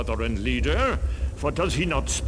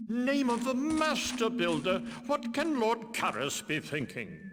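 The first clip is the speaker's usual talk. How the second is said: softer, hushed worried murmur; hushed guard talk; 7 semitones higher, 6 dB quieter than usual. Acted. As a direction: keep it down, the guards gossip in secret.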